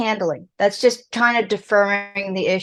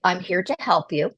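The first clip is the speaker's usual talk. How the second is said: calm, reassuring mother's voice; 2 semitones lower than usual. Shown as a demonstration. Mother calming her crying child, calm and reassuring. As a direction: soothe the upset child calmly. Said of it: "very calmly say".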